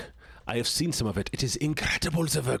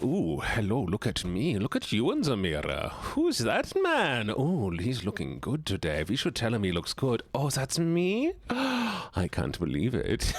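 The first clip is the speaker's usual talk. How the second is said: hammed-up vain mirror flirt; vain mirror gushing; slower than usual. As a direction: coo at your own reflection like a vain hunk. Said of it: "I'm just like".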